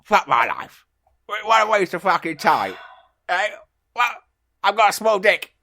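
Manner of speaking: put-on miserable cat voice; Eli the Cat. Spiteful cat scoffing at the duck's errand, put-on miserable voice. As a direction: grumble in a silly cat character voice. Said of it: "Eli the cat went".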